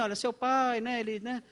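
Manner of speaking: demonstrated careful, tentative breaking of news; gentle, gradual. Shown as a demonstration. Pastor breaking bad news to a mourner, cautiously. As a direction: ease into it bit by bit. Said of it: "Fala devagar".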